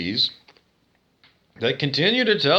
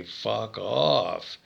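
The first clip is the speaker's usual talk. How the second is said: contemptuous retort; 4 semitones lower than usual. Retold or imitated. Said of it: "And I say".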